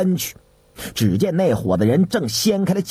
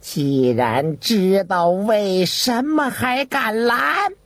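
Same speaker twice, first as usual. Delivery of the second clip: indignant eunuch; 3 semitones higher, slower than usual. A narrator's reading. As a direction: build indignation towards the last word. Eunuch challenges the officer.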